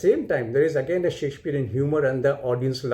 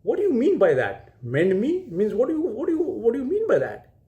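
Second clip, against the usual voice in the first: lightly acted indignation, climbing higher in pitch; enraged; 4 semitones higher than usual. Offended tribune challenges a saucy fellow, acting enraged. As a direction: build to high, sputtering repeated demands, mock outrage. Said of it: "gets further raged by that and says".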